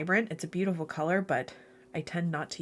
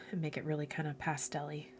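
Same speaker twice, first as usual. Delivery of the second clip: whisper; 3 semitones lower, 9 dB quieter than usual. Real, not acted. Muttering to herself while mixing.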